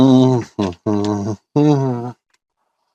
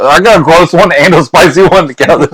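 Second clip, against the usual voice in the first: laughing; 4 semitones higher than usual. Real, not acted. Laughing at bad beans.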